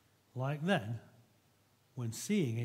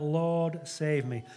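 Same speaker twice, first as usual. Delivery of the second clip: drawn-out, raised cry for rescue; moderately raised Bible-story plea; cried-out plea; 4 dB louder, much slower than usual. Retold or imitated. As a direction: call out for help, stretching the first word. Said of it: "cried out".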